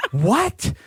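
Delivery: high, incredulous outburst; retold disbelief. Hearing the friend's bed rule, incredulous disbelief. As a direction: act out total bafflement with a pitch leap.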